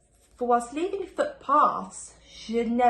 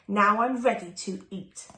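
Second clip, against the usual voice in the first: louder wolf; 5 dB louder than usual. Acted. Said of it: "cried the wolf".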